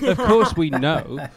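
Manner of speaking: indignant. Retold or imitated. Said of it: "the sort of person who's like".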